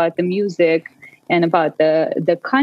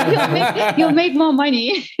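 giggling through the retold advice; laughing quote; 7 semitones higher than usual. Guest retelling friends' advice, laughing. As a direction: laugh while quoting them.

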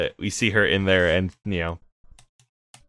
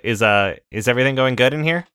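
snake co-pilot voice; 4 semitones higher, 5 dB louder, faster than usual. Acted. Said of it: "what is his fucking voice".

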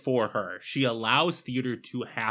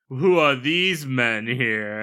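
hammy actor line; 4 dB louder, slower than usual. Retold or imitated. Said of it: "goes like".

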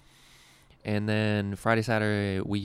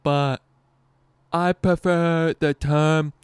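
higher, louder, very slow deadpan impression; impression of disabled comic; 8 semitones higher, 9 dB louder, much slower than usual. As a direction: drag every word out slowly, landing the punchline. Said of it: "I'm gonna do his impression again".

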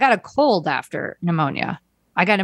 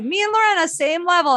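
mocking Christian; 11 semitones higher than usual. Mocking friend's bragging claim.

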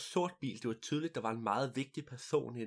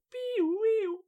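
very high mouth siren sound; siren noise; 6 dB louder than usual. Retold or imitated. Police escort arriving, high siren imitation.

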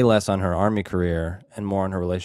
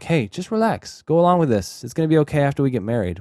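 smooth-talking husband; 5 semitones higher than usual. Retold or imitated.

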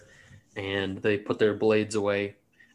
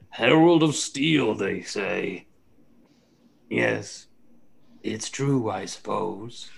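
amused musing; much slower than usual. Acted. Amused NPC muses aloud.

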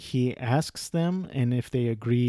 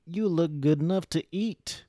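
a hint of a leering creep, pitched higher; lightly voiced sleazy come-on; creepy catcaller; 5 semitones higher than usual. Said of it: "The guy goes".

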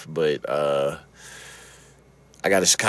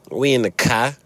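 light Chicago accent on "car"; Chicago-style "car"; 4 semitones higher than usual. Shown as a demonstration. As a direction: say it like a Chicagoan, raised pitch. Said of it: "Like how we say it in Chicago or Boston".

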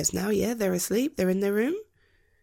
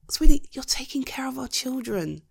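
whispered reassurance; 4 semitones higher, 4 dB louder than usual. Acted. Reassuring wife.

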